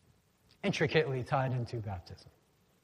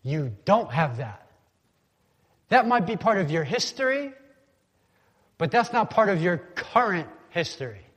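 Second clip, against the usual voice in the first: rebuking prophet; 2 semitones higher, 4 dB louder than usual. Retold or imitated. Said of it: "And he's saying".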